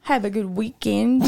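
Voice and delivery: badly faked Irish sign-off; amateur Irish lilt, rising at the end; attempted Irish accent. Shown as a demonstration. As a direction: try a hesitant, giggly Irish accent. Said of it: "say goodbye in your best Irish accent".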